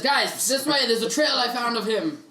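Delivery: a touch of calling out to companions; Cage. Acted. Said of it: "so Cage says".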